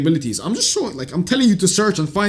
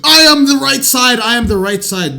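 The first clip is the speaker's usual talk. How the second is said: mocking quote; 4 semitones higher, 4 dB louder than usual. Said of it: "internet political dickhead warrior saying".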